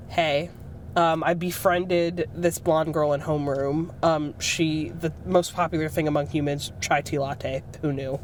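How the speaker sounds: hint of an undercover alien blending in, pitched low; alien posing as human. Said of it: "they're just like".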